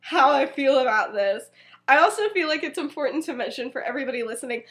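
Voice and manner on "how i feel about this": laughing disbelief. Retold or imitated. Bewildered friend in retold story.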